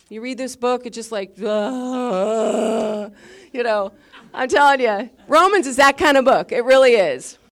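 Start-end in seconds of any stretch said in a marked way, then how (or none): 1.4-3.1 long drawn-out melting groan; imitated groan of being overcome; mock overwhelmed cry. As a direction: let out a long, exaggerated moved "uh". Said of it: "it can make you cry".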